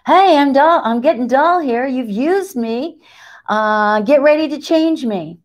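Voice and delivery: a lightly voiced tired needle; talking needle. The needle warns the sewer it is dull, lightly voiced. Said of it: "it's saying".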